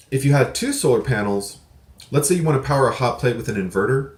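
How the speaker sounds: talking around a mouthful of seeds; words through a bite of seed; mouth full. Real, not acted. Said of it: "Sorry, I had some seed in my mouth".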